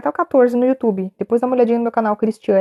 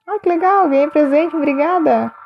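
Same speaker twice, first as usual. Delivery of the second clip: delighted thanks; 6 semitones higher than usual. Real, not acted. Thanks viewer for gift on live.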